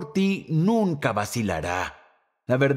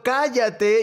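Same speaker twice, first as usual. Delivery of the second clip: higher, sharp mocking shout of shut up; mock crowd yell; 8 semitones higher than usual. Pastor imitating the crowd silencing Bartimeo, mock yell. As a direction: snap it like a hostile crowd. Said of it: "le están gritando".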